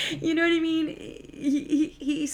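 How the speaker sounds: high burst of laughter into words; laughing. Real, not acted. Vlogger laughing at her own joke, high and loud.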